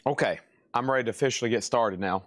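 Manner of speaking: talking while chewing; words round a bite of food; mouth full. Real, not acted. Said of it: "I've been chewing".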